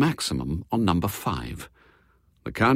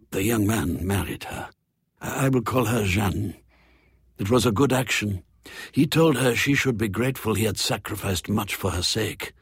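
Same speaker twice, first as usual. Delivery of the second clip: lightly voiced French croupier. Vaucher continues his tale.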